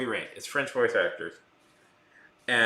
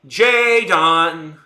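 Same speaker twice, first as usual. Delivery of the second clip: put-on Jadon called out louder in a clumsy French-American accent, stretched long; mock French accent; 4 semitones higher, 12 dB louder than usual. Streamer mimicking the Heavy Rain father, French-accented call. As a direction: call the name like a French actor faking American. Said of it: "they all say it so weird".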